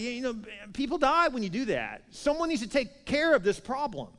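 high-pitched exasperated plea; worked-up, emphatic complaint; frustrated. Retold or imitated. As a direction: urge action in imitated frustration. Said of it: "It's frustrating, isn't it?".

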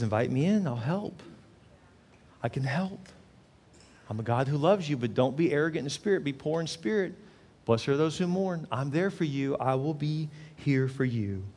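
softly spoken divine promise; gentle reassurance. Acted. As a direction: offer help quietly and steadily. God offering help, voiced gently.

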